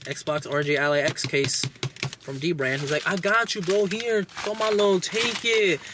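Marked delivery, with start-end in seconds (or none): 3.1-5.8 higher, sly put-on friendliness; mock friendly villain. Villain offering a gift, higher sly mock warmth. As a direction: play the fake buddy, pitched up.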